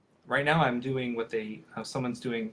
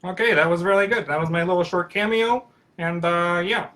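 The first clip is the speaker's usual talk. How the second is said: puppet voice; 6 semitones higher, 8 dB louder than usual. Acted. Puppet keeps talking after cameo.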